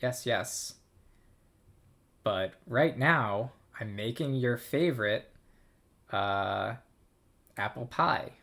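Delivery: lightly voiced busy mother; a hint of a mother reassuring her kid; playful mom voice, bright and brisk; voicing the mom. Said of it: "So she's saying".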